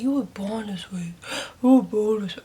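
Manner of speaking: whispered words of the mother; mother's hushed quote. Retold or imitated. Daughter recalling what her mother always told her, whispered. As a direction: hush it like a secret told to a child. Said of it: "she was like".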